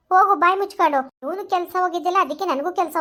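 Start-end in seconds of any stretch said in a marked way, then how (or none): 0.1-1.0 louder, sharp order to go; angry dismissal. Acted. Girlfriend ordering her ex to shut up and leave, loud. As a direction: shut him up and send him off.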